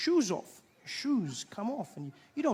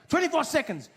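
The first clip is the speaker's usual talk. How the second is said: high, loud barked countdown; mock official shouting the time limit; stern ref call; 8 semitones higher, 4 dB louder than usual. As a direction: bark it like a referee. Mock referee barking rules.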